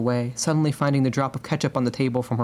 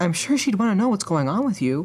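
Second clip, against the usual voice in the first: sugary, sweet-natured, pitched-up voice; 7 semitones higher than usual. Reading fiction, Isabel answers another woman in the conversation; sweetly, smiling. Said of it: "Isabel smiled sweetly at her".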